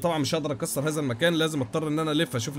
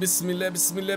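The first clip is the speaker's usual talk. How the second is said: ordinary talk, nothing marked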